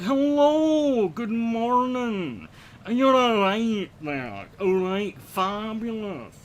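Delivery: very slow, high and loud Highland Scots; slow Inverness accent. Shown as a demonstration. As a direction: stretch every word like a Highlander. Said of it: "like Billy Connolly, but slowed down".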